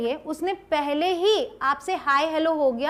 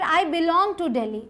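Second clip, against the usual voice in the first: slow model sentence; much slower than usual. Shown as a demonstration. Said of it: "या फिर".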